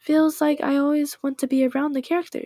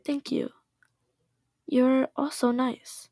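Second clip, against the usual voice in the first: slow, stiff robot voice; 4 dB quieter, slower than usual. Acted. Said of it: "Why do I make her sound like a robot?".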